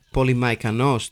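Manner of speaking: Πολυμαϊκανός said lightly with an English accent. Shown as a demonstration. Podcast host reads a title to listeners, in a light English accent. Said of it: "παρακαλώ να διαβαστεί με αγγλική προφορά".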